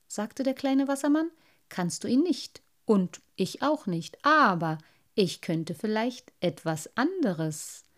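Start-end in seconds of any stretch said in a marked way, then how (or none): 1.7-7.9 put-on a proud little boy defending his finds; little water sprite. Little Wassermann speaks.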